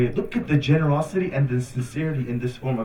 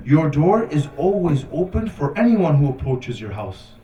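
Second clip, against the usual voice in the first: emphatic, measured line of verse; poetry recitation. Retold or imitated. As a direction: recite it with weight on the key words. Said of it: "he says a line of poetry".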